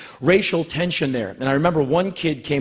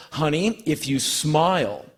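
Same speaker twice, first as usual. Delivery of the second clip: gentle mom; slower than usual. Retold or imitated. Mother comforting her frightened son, gentle. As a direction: soothe a scared child slowly.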